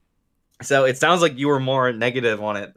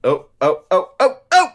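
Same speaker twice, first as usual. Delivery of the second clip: much higher, louder burst of realisation; excited oh; 9 semitones higher, 6 dB louder than usual. Real, not acted. Cohost jumping in with a theory, excited. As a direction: blurt it out like you just got it.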